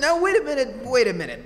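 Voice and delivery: loud objection. Acted. Reporter stopping the plan with a loud objection. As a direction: halt them, loud and rising.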